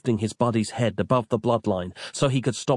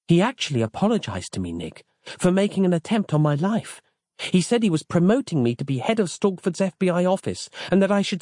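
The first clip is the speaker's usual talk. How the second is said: Roz; 8 semitones higher than usual. A narrator's reading. Roz voiced in narrated story.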